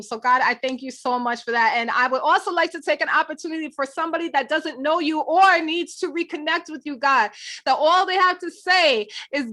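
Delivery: earnest closing prayer, steady. Acted. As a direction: pray it earnestly to God.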